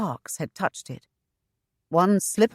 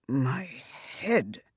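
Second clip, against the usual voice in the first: weak and pained; 5 semitones lower, 9 dB quieter than usual. Acted. Injured man answers.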